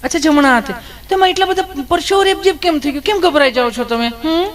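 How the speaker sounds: high, sugary nurse voice, teasing; sweet nurse voice. Acted. Nurse sweetly questions nervous Gabho, high cooing voice. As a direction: coo at him like an overly sweet nurse.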